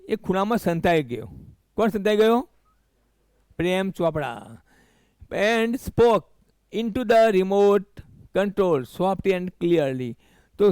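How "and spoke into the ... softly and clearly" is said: slow, careful reading of the English line; slow reading aloud. Shown as a demonstration. Teacher reading the passage slowly to students. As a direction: read each word out slowly for the class. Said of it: "teacher rereads slowly".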